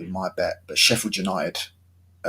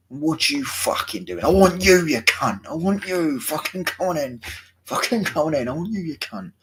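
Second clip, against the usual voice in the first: mock Millwall hardman; 7 semitones higher than usual. Vlogger mimicking the Major calling out a player, mock angry yell. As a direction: bark the challenge like a pitch-side nutter, half joking. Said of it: "they used to call him the Major".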